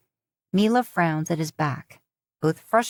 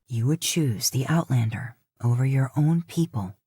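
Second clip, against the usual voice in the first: accusing; 4 semitones lower than usual. Acted. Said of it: "he accuses".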